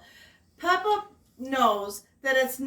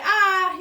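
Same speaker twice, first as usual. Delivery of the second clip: open wide ah; 8 semitones higher, 8 dB louder than usual. Acted. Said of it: "he says".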